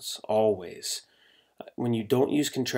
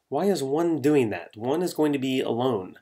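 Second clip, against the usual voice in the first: lightly put-on scholarly airs, a little raised; mock fancy friends; 3 semitones higher than usual. Friends questioning someone left out, mildly mock fancy. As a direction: gently parody friends who talk pretentiously. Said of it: "like you're trying to be this fancy, educated".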